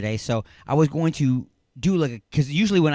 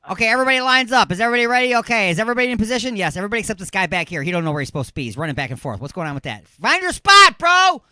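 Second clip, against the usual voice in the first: high, loud, quick huddle chatter building to a yell; hammed-up football player hollering; mock on-field yelling; 9 semitones higher, 7 dB louder, faster than usual. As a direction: act out a chaotic line-up, ending in a shout. Acting out football players lining up.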